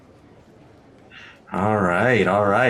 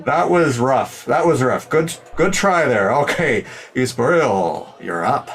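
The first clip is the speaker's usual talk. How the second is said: host voice; 3 semitones higher than usual. Acted. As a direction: move the show along, host. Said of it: "Hoppy's like".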